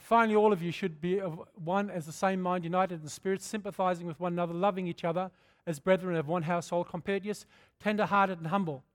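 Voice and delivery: measured scripture read from the pulpit. Acted. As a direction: read the verse aloud with weight. Reading scripture aloud.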